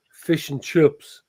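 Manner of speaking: "fish and chips" slowly in a regional accent; regional British accent. Shown as a demonstration. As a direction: say "fish and chips" in your home dialect. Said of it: "certain things that I will say".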